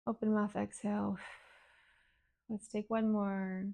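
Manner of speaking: calm breathing-exercise guidance with long pauses; guided meditation. Real, not acted. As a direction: gently lead them through the exercise. Leads breathing and emotion exercise.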